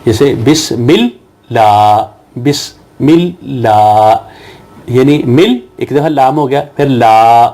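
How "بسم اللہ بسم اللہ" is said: بسم اللہ with the لام held double, slow; doubled lam. Shown as a demonstration. Teacher demonstrating the shadda in بسم اللہ, slow and careful. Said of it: "شد ہوتا ہے".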